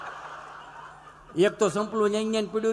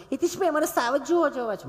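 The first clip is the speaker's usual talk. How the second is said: high, over-careful city lady voice; prissy educated lady; 7 semitones higher than usual. Retold or imitated. Comedian mocking a snooty tourist, high and prim. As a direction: mince every syllable like a fussy schooled woman. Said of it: "ચીપી ચીપીને બોલે".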